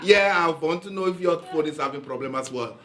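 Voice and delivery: mimicking the caller's Pakistani accent. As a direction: answer back in a Pakistani accent. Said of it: "I'm doing Pakistani accent on the phone".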